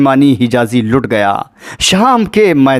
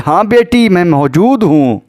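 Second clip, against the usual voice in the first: father answering a call; 3 semitones higher than usual. Retold or imitated. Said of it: "آواز آئی".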